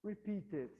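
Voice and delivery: very slow, each word laid out; slow reading. Shown as a demonstration. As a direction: read it out slowly for the class. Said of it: "O que que significa isso".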